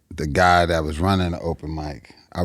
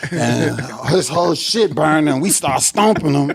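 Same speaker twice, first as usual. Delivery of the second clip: telling it through laughter; laughing while telling; 10 semitones higher than usual. Real, not acted.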